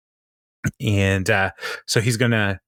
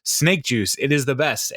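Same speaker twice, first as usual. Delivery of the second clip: higher-pitched imitation of a pushy evangelist; forceful pitch; 5 semitones higher than usual. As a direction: push the product as a mock hard sell. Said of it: "spreading the word forcefully".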